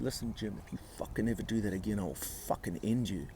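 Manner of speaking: quietly re-enacted menace; retold threat. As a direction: threaten under your breath, fast. Retells threat while gripping throat.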